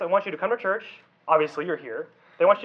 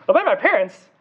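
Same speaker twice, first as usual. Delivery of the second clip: mock disbelief; 3 semitones higher, 5 dB louder than usual. Youth pastor voicing a doubting teen, mock disbelief. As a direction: play the doubting kid who can't believe it.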